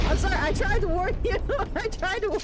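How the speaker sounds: loud, high, laughing through the apology; giggling sorry to the poor NPC. Real, not acted. Streamer apologizing to the NPC she knifed, laughing loudly.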